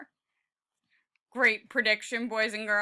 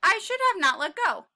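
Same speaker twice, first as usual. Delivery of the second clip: higher, louder cry; falling panic; 4 semitones higher, 6 dB louder than usual. Acted. Tiny crying out as he falls, panicked.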